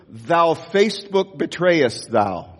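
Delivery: slow, solemn King James-style line; mock King James. Shown as a demonstration. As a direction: intone it like old scripture, slowly. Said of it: "did I get the King James wrong?".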